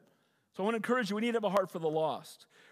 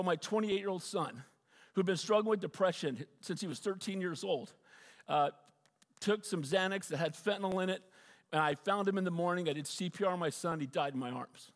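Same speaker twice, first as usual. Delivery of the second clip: grieving; 3 semitones lower, 3 dB quieter than usual. Real, not acted. Telling of his son's death.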